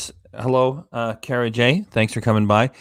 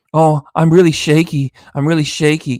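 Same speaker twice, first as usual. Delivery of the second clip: mocking fake shakiness; 3 dB louder than usual. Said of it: "Yeah, my ass, you're shaky".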